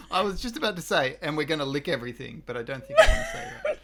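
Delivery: laughing while talking; words break into laughter. Real, not acted. Laughing through the sentence.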